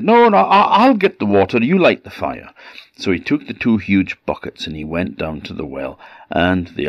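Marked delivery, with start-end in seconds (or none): 0.0-2.5 high, loud hurried pleading; panicked squeal. Acted. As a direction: blurt it out in alarm. Troll panicking.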